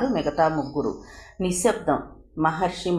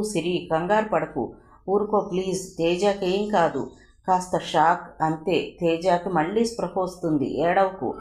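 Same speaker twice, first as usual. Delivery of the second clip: soothing. Acted. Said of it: "అంటూ అనునయించసాగాడు".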